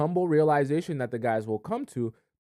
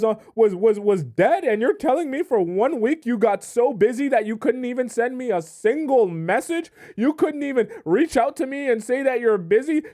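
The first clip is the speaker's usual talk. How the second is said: mock freak-out; 11 semitones higher, 6 dB louder than usual. Girlfriend mocking boyfriend's excuse, higher and louder hammed-up freak-out. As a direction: ham up the hysterical girlfriend who can't believe the excuse. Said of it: "He's expecting you to freak out like that".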